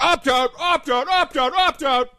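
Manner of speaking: high, far, repeated curt orders; mock a brusque airport guard; barking American TSA agent. Mocking the rude American screeners, curt barked orders. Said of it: "Whereas in America, you know, it's like".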